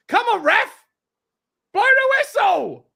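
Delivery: high, loud, slow plea; pleading with the referee. Real, not acted. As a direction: beg the ref to blow up. Begging ref to end match.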